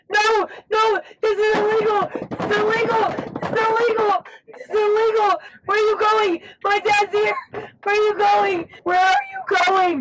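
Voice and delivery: crying out in panic; panicked pleading. Real, not acted. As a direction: plead frantically, on the verge of tears. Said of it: "are you speaking from personal experience".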